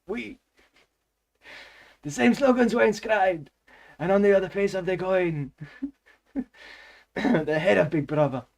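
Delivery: high-pitched, hammed-up French accent; comic French narrator voice. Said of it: "how would a Frenchman say brother".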